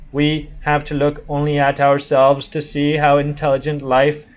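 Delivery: slow, even robot voice; lightly voiced robot, slow and steady. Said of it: "let me try a robot voice".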